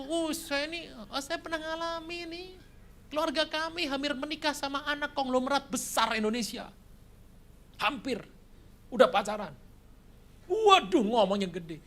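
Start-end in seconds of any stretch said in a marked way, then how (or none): 0.1-9.5 high, boastful voice; lightly voiced boasting fraud; bragging con man. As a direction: show off like a swindler.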